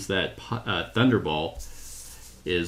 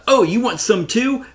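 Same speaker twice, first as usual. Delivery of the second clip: high, loud playful taunt; mock taunt; 14 semitones higher, 6 dB louder than usual. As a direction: call it out like a cocky hero firing. Voices hero firing at villain.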